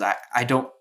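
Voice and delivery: mildly choked up, halting with long pauses; understated emotion, groping for the words; overwhelmed with emotion. Acted. Grateful woman to those who helped her, mildly overwhelmed. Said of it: "she just looks very overwhelmed with emotion".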